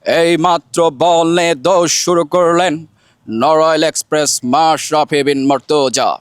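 slow, measured radio cricket commentary; formal, projected commentator delivery; Chowdhury Jafarullah Sharafat. Shown as a demonstration. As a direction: commentate ball by ball, stretching each phrase. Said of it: "Chowdhury জাফরুল্লাহ শারপাত স্যারের কণ্ঠে যে বাংলাদেশের ধারাভাষ্যকার".

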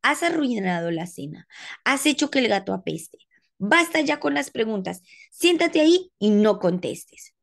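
stern father. Acted. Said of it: "Y su padre dijo".

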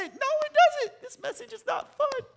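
high squeaky mock complaint; mock whiny reply. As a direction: whine it like a reluctant churchgoer.

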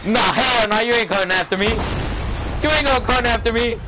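excited protest. Real, not acted. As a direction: back off while you laugh it away. Fleeing a player in-game.

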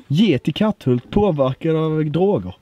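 punchy mock-headline delivery; lightly hammed-up newspaper headlines; mock tabloid headlines. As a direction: announce it like a scandal headline.

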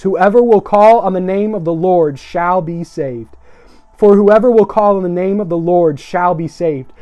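slow, weighty Bible reading; scripture reading. Real, not acted. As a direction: proclaim the verse phrase by phrase, drawing out the ending. Reads scripture aloud.

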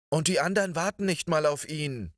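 put-on high, fast outraged little girl; little Lissy cries out indignantly, high and fast; indignant child. A narrator's reading. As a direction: protest in quick childish outrage. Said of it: "rief die kleine Lissy empört".

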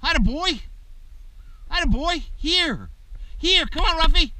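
high, loud praise and calling; excited praise. Real, not acted. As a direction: cheer and call the pup in.

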